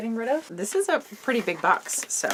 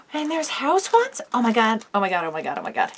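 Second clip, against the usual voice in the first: shrieking jackpot winner; 4 semitones higher, 4 dB louder than usual. Real, not acted. Finding Harry Potter house items.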